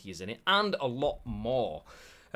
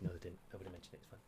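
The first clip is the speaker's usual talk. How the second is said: much softer arguing with himself; inner voice; 4 semitones lower, 14 dB quieter, much faster than usual. Pretend. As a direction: mutter it like a voice in your head. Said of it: "Voices in your head".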